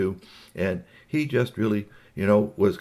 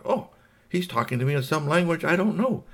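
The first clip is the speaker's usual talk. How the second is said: puzzled alien's thought; 8 semitones higher than usual. Acted. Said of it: "Igglypop thought".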